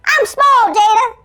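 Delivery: high cartoon squeak; small, high elfin exclamation. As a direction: cry out like a tiny panicked elf. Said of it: "sound like a cartoon elf".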